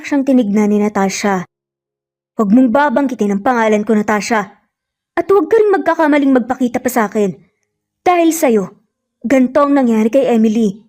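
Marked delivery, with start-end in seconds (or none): 2.3-10.8 seething anger. Acted. Lucas seething at Natasha over Emily's accident. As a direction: spit it out, barely holding back rage. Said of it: "Nagngingit-ngit nga na sabi".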